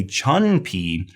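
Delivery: CHUN with "uh" in place of oo; mispronounced with uh. Shown as a demonstration. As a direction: demonstrate the wrong "chun pi", uh in chun. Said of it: "they wanna say chun".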